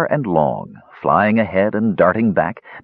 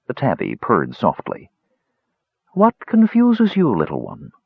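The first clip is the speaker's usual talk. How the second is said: put-on sly old cat voice; 3 semitones higher than usual.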